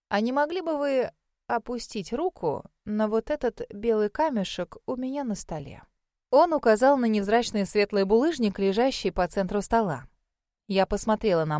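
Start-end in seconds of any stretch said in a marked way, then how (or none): 0.1-5.8 lightly voiced elderly examiner; old mage, courteous. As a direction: make a polite, considered request as an old scholar. Voices the old mage making request. (слегка обозначенный голос старого мага, вежливо)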